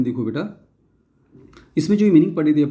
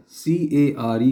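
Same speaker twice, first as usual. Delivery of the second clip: slow spelling out; much slower than usual. Shown as a demonstration. Teacher slowly spelling "सी ए आर ई" for children, drawn out. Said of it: "इसके बाद जो है care".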